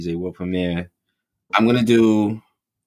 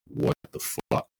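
breathless, slow, soft whisper of shock; stunned whisper; 9 dB quieter, much slower than usual. Retold or imitated. Coworkers hearing Kobe died, stunned slow whisper. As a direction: let it slip out in disbelief. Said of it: "like, stunned".

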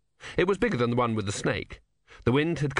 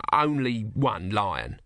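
reluctant, drawn-out understatement; hedging admission; much slower than usual. Acted. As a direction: play it down, drawing it out.

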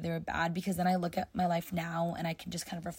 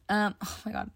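voice cracking. Real, not acted. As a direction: voice cracks mid-word. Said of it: "my voice just cracked".

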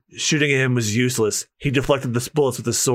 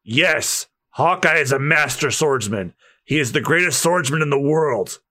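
grave authority. Acted. Veteran telling the crew who the swordsman is, grave.

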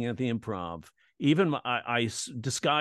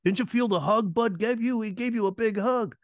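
high mock incredulous voice; imitating the coordinator; 9 semitones higher than usual. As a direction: tease him like he did. Quoting coordinator about hug.

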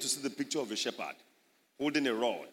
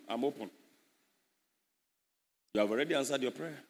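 mock girl praying; 6 semitones lower than usual. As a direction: pray sweetly as a young woman. Preacher acts a young woman praying.

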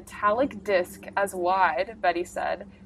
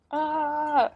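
about to sneeze; 7 semitones higher than usual. Real, not acted. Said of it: "Oh, now I'm gonna sneeze".

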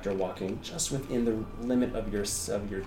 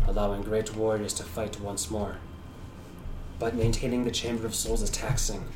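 solemn Shadar Kai. Acted.

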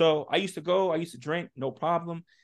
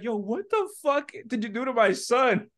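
higher, louder demanding mom; mock angry mom; 8 semitones higher, 3 dB louder than usual. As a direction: confront the driver about her son. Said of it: "She's like".

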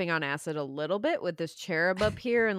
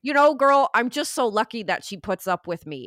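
her dad's voice. Retold or imitated. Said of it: "I was doing my dad's voice".

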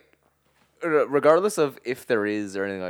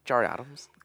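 put-on Northern Irish accent; 3 semitones higher than usual. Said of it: "Northern Irish accent".

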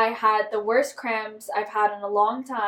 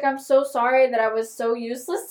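guilty apology; 4 semitones higher, 7 dB louder than usual. Retold or imitated. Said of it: "I literally was like".

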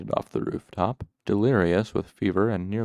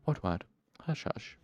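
soft, gentle murmured hush; patient murmur; 7 dB quieter than usual. A narrator's reading. Trappist nursing the boy through fever, murmuring gently. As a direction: murmur it patiently, almost breathless. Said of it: "murmuring his patient, gentle".

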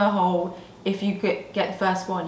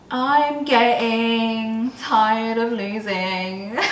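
laughing; 5 dB louder, much slower than usual. Real, not acted. Laughing while singing.

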